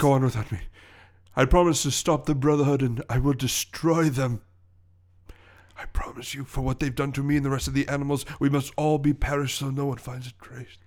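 a hint of a heroic sacrifice; lightly dramatic farewell vow; overacted death scene. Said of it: "that was much more poignant".

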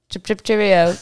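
light mock British sign-off; playful British goodbye; British accent. Host signing off the podcast, light mock British accent. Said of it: "British accent the entire time".

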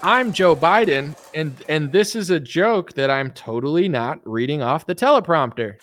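high, mock Biden voice; squeaky doddering old president; hammed-up Biden; Biden impression.

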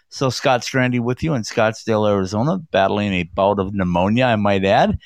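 hoarse from illness; raspy, sick voice. Real, not acted. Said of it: "if my voice sounds a little raspy".

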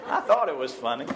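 chuckling while talking; laughing. Real, not acted. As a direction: say it through a laugh. Still laughing after joke.

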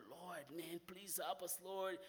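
soft, quietly pleading prayer; retold prayer. Praying to the Lord in the tent city, softly pleading. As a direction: murmur a plea for mercy under your breath. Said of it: "I was praying to the Lord".

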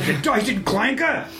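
drawn-out, high-pitched British insult; mock British accent. Player voicing Knife's card insult, mock British accent. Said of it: "do everything in a British accent now".

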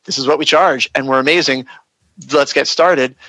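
matter-of-fact, sure of the price; confident fee answer, no hesitation. Shown as a demonstration. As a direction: state the fee like it's obvious. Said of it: "the appropriate point in time in your consultation to say".

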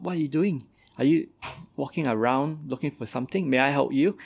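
trickster tale voices. Acted. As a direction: voice the helpful tortoise up high. Tortoise speaks in fable.

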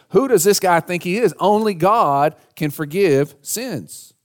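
preacher imitating affronted religious critics; indignant objection. Religious people object to Jesus.

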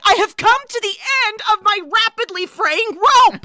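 high, loud theatrical despair; mock-tragic, overblown lament; hammed-up Julia quote. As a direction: ham up her melodrama, quoting the film. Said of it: "where she's like".

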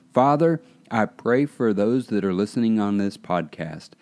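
opening a spoken prayer, calling out "Father". Real, not acted. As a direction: pastor praying over podcast listeners. Pastor begins praying for listeners.

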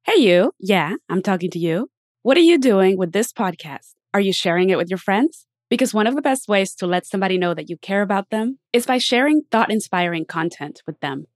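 upbeat scripted host read over music; polished announcer-style podcast opener; podcast intro read. Acted. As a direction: sell the show to listeners.

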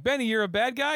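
high-pitched incredulous question; imitating shocked disbelief; retold disbelief. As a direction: act out a stunned viewer confronting a traitor. Shocked viewer addresses betraying Benny.

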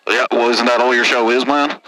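redneck caller. Acted. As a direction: grumble it like a sore trucker.

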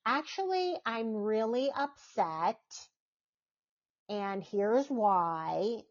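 slow, open admission; honest calm reply. Shown as a demonstration. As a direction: say it plainly and slowly, with honesty. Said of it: "why not just say".

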